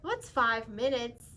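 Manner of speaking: pushy little bird haggling for time, slow on the ask; pigeon bargaining. Acted. Pigeon character voice.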